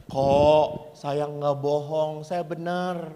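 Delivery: slow, mildly drawn-out denial; old pastor protesting. Retold or imitated. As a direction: play the innocent old priest, slowly. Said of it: "pastor itu berkata".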